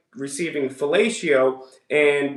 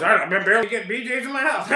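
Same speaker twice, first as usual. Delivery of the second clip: mocking quote through laughter; 5 semitones higher, faster than usual. Host laughing as he repeats Mike's line back. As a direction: laugh while parroting his line.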